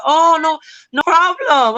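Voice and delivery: high, chirpy, falsely cheerful; bright reassurance. Retold or imitated. Telling the women it's no problem, high and chirpy. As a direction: sing it out sweetly and brush it off. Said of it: "And I'm like".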